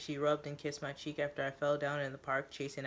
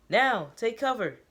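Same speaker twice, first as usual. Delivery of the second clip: slow, higher and louder warning shout; yelled order; 7 semitones higher, 8 dB louder, slower than usual. A narrator's reading. Teo yelling at everyone to take cover. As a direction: yell it out, dragging each word. Someone yells.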